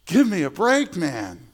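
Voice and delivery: sigh, then push back in mock exasperation. Grumbling host answering Peter's order, mock exasperated.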